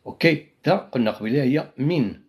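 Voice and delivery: ordinary talk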